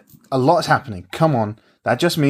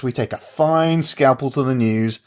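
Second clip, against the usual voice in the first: slow solemn declaration; slower than usual. Acted. Slow solemn mock speech.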